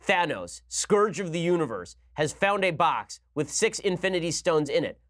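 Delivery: slow, grand opening crawl read out; hammed-up slow epic narration; mock Star Wars crawl. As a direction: intone it like the scrolling text before a space epic. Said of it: "A Star Wars crawl".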